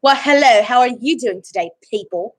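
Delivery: playful British greeting with attitude; British accent with attitude. Shown as a demonstration. Performing an accent on a friend's request, British accent with attitude. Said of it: "A British one?".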